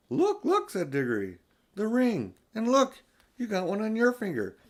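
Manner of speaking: put-on boy showing the girl the ring, high and thrilled; excited. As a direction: point it out in a rush of excitement. Diggory spots the ring.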